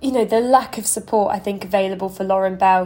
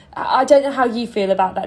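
plain

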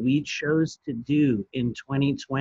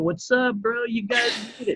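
sarcastic voice, pitched a bit higher; 9 semitones higher than usual. Joking that aliens will come through a portal to help: imitating the blue avians. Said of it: "the blue avians are gonna roll through and be all".

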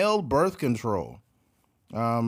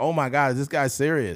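normal talking voice

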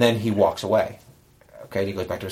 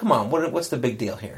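mock indignant tone. Retelling how he sounded to the officer: imitating own indignant protest. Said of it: "a little bit like".

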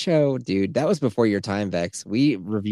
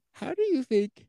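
very high, yawn-stretched voice; 4 dB quieter than usual. Speaker starting a question about big film productions, yawning. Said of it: "Sorry, yawning".

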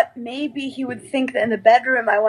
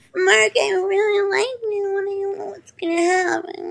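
put-on very high-pitched, cutesy baby talk voice; 9 semitones higher than usual. Imitating a girl talking to a guy in an interview: imitating a baby voice. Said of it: "talks to the guy in that voice".

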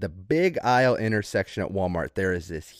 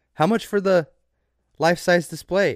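put-on sarcastic voice, very high and loud; 9 semitones higher, 6 dB louder than usual. Recounting asking a passing Walmart lady about the cutout: retelling a sarcastic question. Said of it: "I sarcastically turn to her and go".

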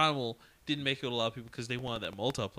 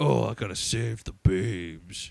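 slow, dopey, dumb-sounding action-hero drawl; 3 semitones lower, 4 dB louder than usual. Mocking the game's hero's stupid lines: Duke Nukem voice. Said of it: "unspeakable stupid shit like".

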